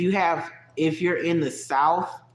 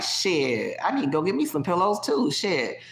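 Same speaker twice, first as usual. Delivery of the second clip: casual Southern; 4 semitones higher than usual. Retold or imitated. Imitating local folks grabbing pillows, loose Southern. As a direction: toss it off like a country neighbour. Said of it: "most people around here would be like".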